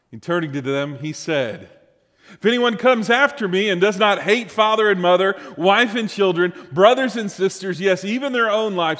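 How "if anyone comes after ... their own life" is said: emphatic scripture reading. Acted. Preacher reads Jesus' hard demand.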